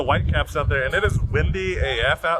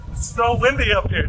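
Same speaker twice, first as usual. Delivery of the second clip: high, raised voice against the wind; shouting over wind; 9 semitones higher than usual. Real, not acted. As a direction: call it out over roaring wind. Strong wind on top deck.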